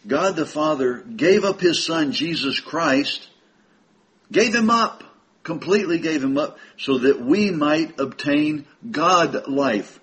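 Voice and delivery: emphatic phrasing with drawn-out key words; slow, deliberate. Real, not acted. Preacher explaining the verse to brethren, slowly and emphatically. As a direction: take it phrase by phrase, stressing each. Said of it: "Let's look at it slowly".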